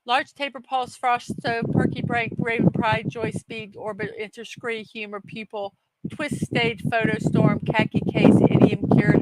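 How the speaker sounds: word list rattled off on a single breath; all in one breath. Shown as a demonstration. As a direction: run it all together without breathing. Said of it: "say all these words in one breath".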